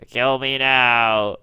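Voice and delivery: very slow, drawn-out mock plea; lightly voiced, dragging every word out; mock suffering creature. Player voicing the misshapen Pokemon, slow mock misery. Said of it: "It's like".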